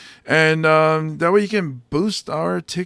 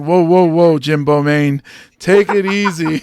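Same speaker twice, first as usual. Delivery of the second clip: loud, comic whoa-there warning; mock self-restraint; 6 dB louder than usual. Comic telling himself to stop, mock warning. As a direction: rein yourself in with mock alarm.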